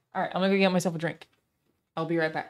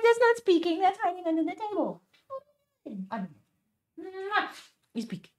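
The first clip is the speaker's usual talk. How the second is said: pet talk; 11 semitones higher than usual. Real, not acted. Urging her dog to say hi to chat, high pet voice. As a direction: coax the dog to speak in a high cooing voice.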